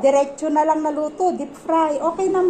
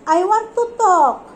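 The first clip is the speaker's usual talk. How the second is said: put-on slow, louder, a little higher baby line; voicing the baby; 4 semitones higher, 5 dB louder, slower than usual. Mother putting words in the baby's mouth, slow baby talk. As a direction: speak up for him, slowly. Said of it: "You tell".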